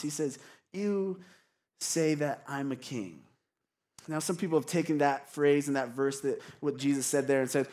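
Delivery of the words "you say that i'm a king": soft, unhurried reply with a pause; gentle. Acted. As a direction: answer gently, without pushing back. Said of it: "I think, gentle response".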